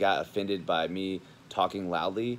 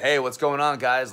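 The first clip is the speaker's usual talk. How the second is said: much louder, higher, hyped hello; pumped greeting; 4 semitones higher, 8 dB louder than usual. Retold or imitated. Showing how pumped he greets everyone, loud and high. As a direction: burst in full of energy.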